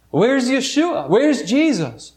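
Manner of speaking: rising panic. Acted. Parents realizing their son is lost, in rising panic. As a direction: ask it as fear takes hold.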